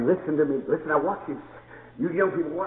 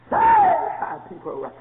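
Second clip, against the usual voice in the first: very high, slow preached cry; 4 dB louder, much slower than usual. Acted. Preacher cries out the meaning of Hosanna, high and slow. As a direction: stretch it out like a plea. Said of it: "look up the word Hosanna".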